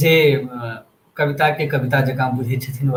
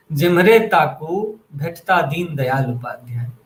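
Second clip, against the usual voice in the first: poetry recitation. Acted. Host reciting a poem on new India to listeners, measured recitation. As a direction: recite it line by line, pausing after each.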